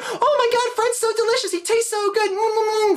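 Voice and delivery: put-on very high-pitched child cannibal voice; excited little kids. Little cannibals eating Fred's brain, high, gleeful kid voices. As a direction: squeal it like delighted ten-year-olds at a party. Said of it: "Ten-year-old little cannibals come running in".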